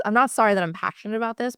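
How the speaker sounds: fast, heated insistence; worked up. Real, not acted. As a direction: rush it out, fired up. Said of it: "I'm getting a little heated, a little worked up".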